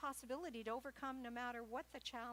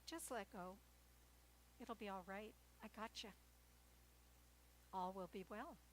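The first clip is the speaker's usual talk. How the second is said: softer, calm reassuring voice; higher self reassuring; 6 dB quieter than usual. Retold or imitated. The higher self comforting the frightened ego, soft and calm. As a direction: soothe them, gently and unhurried. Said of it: "the higher self saying".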